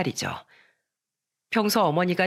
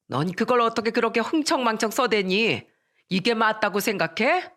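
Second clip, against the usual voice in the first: a narrator's mother-in-law, sharply scolding; stern mother-in-law scolding, voice pitched up; 3 semitones higher than usual. Acted. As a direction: lay into the daughter-in-law over money. Mother scolds over card bill.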